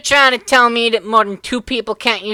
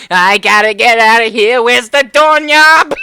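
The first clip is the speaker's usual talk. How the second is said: panicked Joey; 8 dB louder than usual. Retold or imitated. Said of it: "Joey's like".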